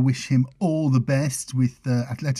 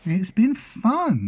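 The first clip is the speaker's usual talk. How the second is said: whisper; 8 semitones higher, much slower than usual. Real, not acted. Whispered aside.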